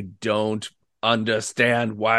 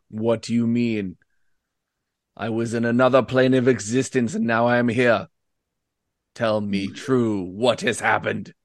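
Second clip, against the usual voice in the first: voice of a demon. Voicing the demon that has just possessed a player's character: voice of the possessing demon. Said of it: "he's speaking into your head".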